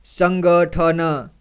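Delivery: संगठन pulled apart very slowly, syllable by syllable. Shown as a demonstration. Teacher demonstrating slow sounding-out for children, very slow and deliberate. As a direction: read संगठन piece by piece. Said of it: "एक एक जोड़ करके इसी तरह से पढ़ना है".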